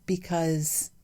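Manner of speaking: usual speaking voice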